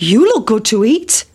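lightly voiced cockerel. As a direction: crow the words hungrily. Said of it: "said the cock".

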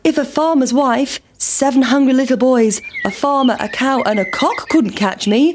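lightly voiced cheeky pancake; taunting pancake. Pancake boasting to the sheep, lightly taunting.

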